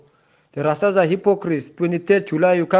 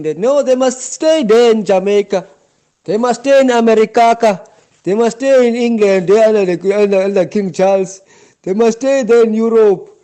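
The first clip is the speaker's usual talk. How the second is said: rising, louder indignant rant; angry rant; 3 semitones higher, 3 dB louder than usual. Real, not acted. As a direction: hammer each line home in anger. Heated rant against Jamaican Rastas.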